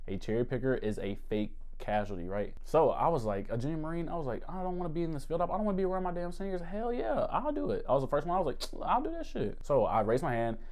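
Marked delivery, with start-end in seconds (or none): 4.5-6.6 higher-pitched, hurried protest; acted inner monologue. Acted quote of his eager younger self. 6.6-7.8 high-pitched gung-ho yes; volunteer eagerly, voice shooting up. Retold or imitated. 8.8-9.6 volunteer in a high, keen voice; eager volunteering. Retold or imitated.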